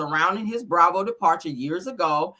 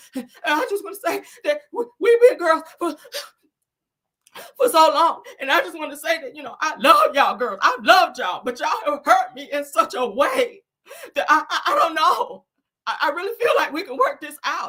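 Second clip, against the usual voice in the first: acted high, choked sobbing, gasping between words; 9 semitones higher, 3 dB louder than usual. Acting out a hurt woman addressing her girls, imitating crying, struggling for words, breathing hard. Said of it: "you can't get your words out and you got to breathe real hard".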